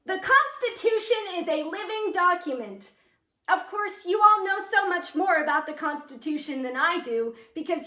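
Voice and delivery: lightly voiced teenage contest speaker; fifteen-year-old speechmaker. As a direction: deliver it as an eager, slightly heightened contest speech. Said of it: "I'm gonna be fifteen".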